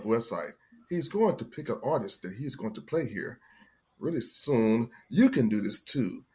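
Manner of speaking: golf commentator. Shown as a demonstration. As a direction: call it like a hushed golf broadcast. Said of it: "that's a golf voice?".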